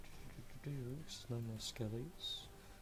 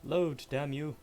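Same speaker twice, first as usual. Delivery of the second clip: louder, higher burst of frustration; exasperated outburst; 4 semitones higher, 7 dB louder, slower than usual. Real, not acted. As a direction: curse at a stubborn machine. Cursing at slow loading.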